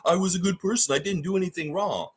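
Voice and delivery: a hint of a boastful blowhard, lightly voiced; smug self-praise, half-hearted impression; lightly mocking a bragging politician; mock Donald Trump. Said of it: "Donald Trump would say".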